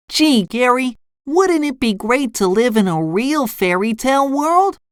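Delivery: high, wistful cartoon voice; SpongeBob dreamily asking. A narrator's reading. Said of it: "SpongeBob dreamily asked his pet".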